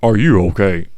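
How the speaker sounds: smooth fifties radio-announcer impression; sensual radio voice. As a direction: play the reassuring sensual radio man. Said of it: "fifties radio voice".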